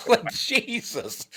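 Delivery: a hint of high, slow Southern drawl. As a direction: stretch it lazily. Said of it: "these Southerners really lay in".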